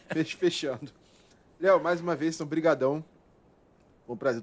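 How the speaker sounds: talking with a mouthful; words around a bite of food; mouth full. Real, not acted. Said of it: "Tô até falando de boca cheia". (falando de boca cheia)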